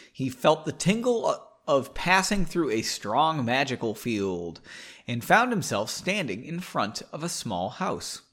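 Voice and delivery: measured audiobook-style reading; story narration. A narrator's reading. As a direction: read the story aloud, with pauses between phrases. Reads story aloud.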